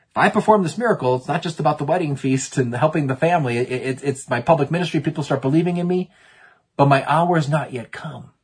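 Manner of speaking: impassioned appeal. Acted. Jesus says to his mother what the miracle means, urgent.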